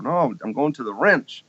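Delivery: a touch of Texan, "wrench" for ranch; Texas family accent. Retold or imitated. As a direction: insist in a mild Texas twang. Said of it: "my family say the wrench".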